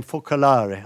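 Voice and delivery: lightly put-on Italian accent. Shown as a demonstration. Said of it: "put on an Italian voice".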